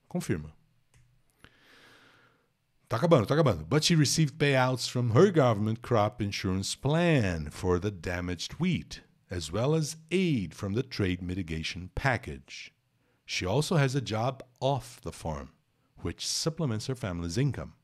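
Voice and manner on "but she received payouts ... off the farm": slow, careful English reading of a news text; reading aloud. Acted. Teacher reads the English passage slowly to students. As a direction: read the article out slowly for the class.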